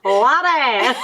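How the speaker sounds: put-on Irish leprechaun pirate voice; badly attempted pirate brogue, Irish-tinged. Host repeating it for laughs, leprechaun pirate accent. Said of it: "you're a leprechaun pirate?".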